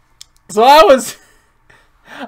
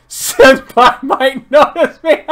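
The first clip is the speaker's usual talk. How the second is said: high, slow shy anime voice; overacted anime dub; 6 semitones higher, 5 dB louder, slower than usual. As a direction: play it shy and hopeful. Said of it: "Chester's voice".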